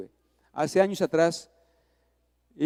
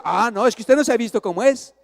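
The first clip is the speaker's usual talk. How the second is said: raised-pitch retort to a wife; defensive; 4 semitones higher, 4 dB louder than usual. Acted. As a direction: push the blame back at her. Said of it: "nos ponemos a la defensiva". (réplica defensiva)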